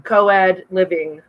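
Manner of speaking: co-ed living said slowly and deliberately; slow, clear co-ed. Shown as a demonstration. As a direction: spell out co-ed living by voice. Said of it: "that's not what he said".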